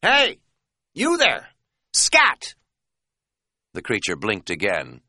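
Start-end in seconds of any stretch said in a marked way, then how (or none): 0.0-2.5 high, loud yelp to scare it off; timid high-pitched hollering; cautious shout. A narrator's reading. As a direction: shout high, as if afraid to provoke it. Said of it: "I cautiously shouted at it".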